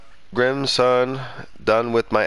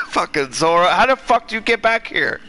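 exasperated; 5 semitones higher than usual. Real, not acted. Exasperated at Zoro's return.

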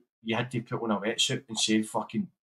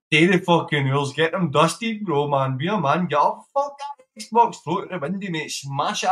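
louder, rallying a mate to get his act together; fired-up pep talk; 2 semitones higher, 4 dB louder than usual. Real, not acted. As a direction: push him hard, rising to a near shout at the end. Hyping up a mate to comply.

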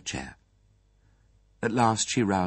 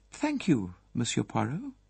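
formal and remote; 4 semitones higher, 4 dB quieter than usual. Acted. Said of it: "her voice was formal and remote".

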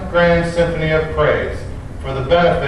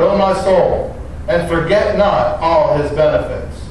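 solemn, measured Bible reading; scripture reading. Acted. Pastor reading the psalm to the standing congregation, reverent. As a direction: read the psalm aloud with reverence.

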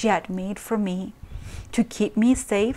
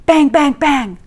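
louder, higher pounding cry; loud banging call; 6 semitones higher, 7 dB louder than usual. A narrator's reading. Intruder at the door, loud mocking call. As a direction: bang it out at the door. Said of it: "a cynical voice called out".

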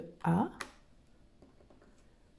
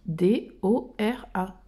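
slow spelling; 4 semitones lower, 4 dB quieter, slower than usual. Shown as a demonstration. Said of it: "Donc, Dora".

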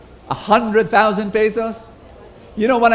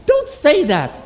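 sharp, high, urgent don't say that; alarmed protest; 9 semitones higher, 3 dB louder, slower than usual. Retold or imitated. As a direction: stop him in alarm. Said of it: "reply to friend".

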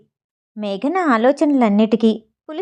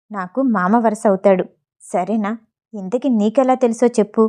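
annoyed, quiet; 2 semitones lower than usual. Acted. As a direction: grumble it softly so only she hears. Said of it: "విసుక్కుంటూనే చిన్నగా అడిగాడు". (చిన్నగా విసుక్కుంటూ)

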